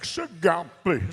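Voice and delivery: slow, drawn-out Sigapi in a put-on voice; a singer as Blackfoot. MC joking to the crowd, slow put-on crooner Sigapi. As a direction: stretch Sigapi out slowly like a crooner. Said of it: "If he was Blackfoot".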